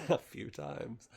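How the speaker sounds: slow, chuckling echo of the phrase; amused repeat. Real, not acted. Reader amused by her own racy line, chuckling slowly. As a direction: savour it with a laugh.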